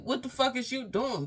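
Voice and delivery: high mock shout through a door. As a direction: call through the door demanding answers. Sister knocking at the door.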